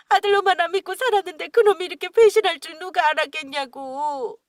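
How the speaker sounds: father lamenting his son's betrayal, loudly. Acted.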